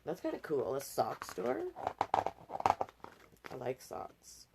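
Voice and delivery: soft breathy whisper, slowed right down; whispered aside. Real, not acted. Reading to a child, a private whispered aside. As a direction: let it slip out under your breath.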